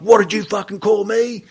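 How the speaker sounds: hammed-up threatening roar; furious corporal. Corporal grabs recruit, furious.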